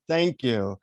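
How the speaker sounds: understated, sincere thanks; heartfelt. Retold or imitated. Grateful traveller finding clean water, heartfelt thanks. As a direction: say it simply, from the heart. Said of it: "really feeling my heart for five seconds".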